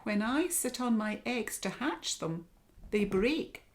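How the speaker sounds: high little pelican voice; piping pelican. Acted. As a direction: pipe it up like a worried bird. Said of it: "piped Pelican".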